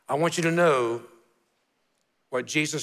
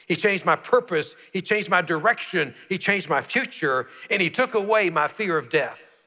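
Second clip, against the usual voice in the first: rising testimony; 3 semitones higher than usual. Real, not acted. Preaching build, repeated lines.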